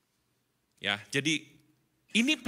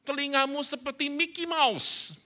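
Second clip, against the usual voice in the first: mock book advice; 7 semitones higher, 3 dB louder than usual. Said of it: "ada buku lama, cerita".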